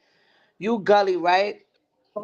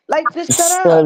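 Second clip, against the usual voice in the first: shut up; 9 semitones higher, 7 dB louder than usual. Real, not acted. Fed up, telling her off.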